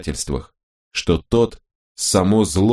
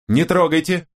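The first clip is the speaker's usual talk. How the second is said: high, sudden warning cry; sharp exclamation; 10 semitones higher than usual. A narrator's reading. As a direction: stop his hand with a quick high call. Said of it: "воскликнула Собел". (резкий высокий возглас)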